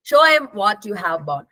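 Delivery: "him" reduced to a quick 'em; weakened THEM. Shown as a demonstration. Teacher demonstrating connected speech, weakening the pronoun to 'em. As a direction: slur the middle pronoun down to 'em after "show". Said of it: "weakened and pronounced M".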